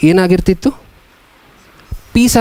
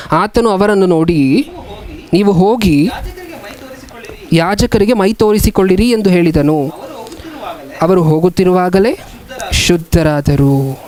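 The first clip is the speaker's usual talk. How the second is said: slow, measured Bible reading; scripture reading; slower than usual. A narrator's reading. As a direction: read it out phrase by phrase, with long pauses. Reads scripture aloud. (ನಿಧಾನವಾದ Bible ವಾಚನ)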